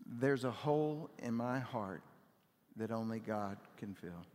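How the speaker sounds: "There's a hole in my heart" said slowly for the room to echo; slow unison recital. Shown as a demonstration. Pastor leading the congregation in the phrase, slow recital. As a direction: lead the church through it word by word, slowly. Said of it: "Can you say it with me?".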